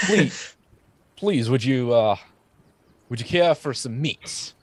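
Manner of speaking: eager host bandit. Acted. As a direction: offer the meat too sweetly. GM voices bandit.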